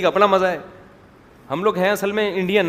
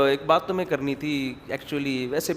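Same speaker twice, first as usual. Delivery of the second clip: understated, offhand confiding tone; feigned seriousness; 2 semitones lower, 4 dB quieter than usual. Acted. Girl telling her friend news, mock serious. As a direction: play it down as no big deal. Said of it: "serious بن کے بالکل".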